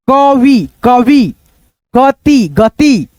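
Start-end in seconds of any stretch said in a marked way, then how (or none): 0.1-0.7 कवि broken up as क, then वि; separated beginner's reading of कवि; split into parts. Shown as a demonstration. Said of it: "दो भागों में divide करके". 1.9-2.5 गति broken up as ग, then ति; separated beginner's reading of गति; split into parts. Shown as a demonstration. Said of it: "दो भागों में डिवाइड करके".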